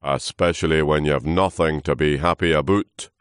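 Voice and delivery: loud, weary character voice; sleepy old trunk. Acted. Old trunk chiding noisy leaf, sleepy grumble. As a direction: grumble it like a drowsy elder. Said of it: "said the old trunk sleepily".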